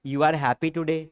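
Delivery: slow, careful model English; teacher modelling an English sentence slowly. Shown as a demonstration. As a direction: spell it out slowly for the class. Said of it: "तो sentence क्या बनेगा?".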